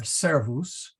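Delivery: "servus" with the accent on the first syllable; a teacher's clear demo of "servus", first syllable stressed. Shown as a demonstration. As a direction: stress the SER in "servus", let the ending fall. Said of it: "the accent there".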